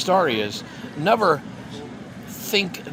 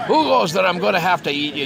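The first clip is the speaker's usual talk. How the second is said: lightly acted troll challenge, higher and louder at first; troll's challenge; 5 semitones higher, 3 dB louder than usual. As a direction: burst out as a troll stopping an intruder, mildly. Troll jumps out to challenge goat.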